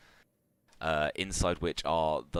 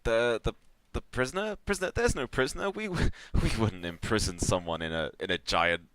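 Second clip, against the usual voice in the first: high-pitched, stammering cover-up; flustered denial; 6 semitones higher, 4 dB louder than usual. Acted. Cornered engineers lie to intruders about the prisoner, flustered. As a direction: deny it nervously, pitch jumping up. Hobgoblins deny having a prisoner.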